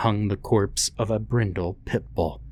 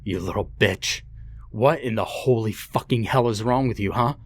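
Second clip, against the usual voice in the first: thundering anger; 3 semitones higher than usual. Acted. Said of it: "his father thundered deafeningly".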